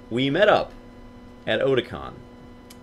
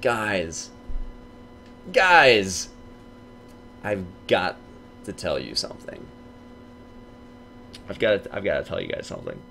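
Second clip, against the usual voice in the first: a hint of a nervous confession, building suspense; mock dramatic confession; 4 dB quieter than usual. Telling the guild friends a secret, lightly hushed. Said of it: "And I was like".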